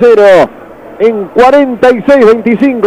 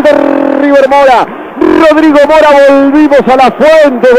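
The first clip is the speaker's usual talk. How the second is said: excited goal call; 5 semitones higher than usual. Real, not acted. Celebrating the equalizer goal.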